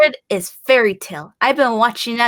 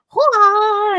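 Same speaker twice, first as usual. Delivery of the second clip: battle cry; 9 semitones higher, 3 dB louder than usual. Retold or imitated. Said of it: "she's like".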